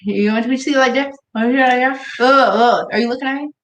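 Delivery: lightly voiced stern mom warning her son; imitating mom talking low. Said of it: "And go like this".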